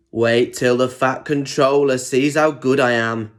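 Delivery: a light, smug brag; mild show-off voice for Diesel; boasting. Acted. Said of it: "he boasted".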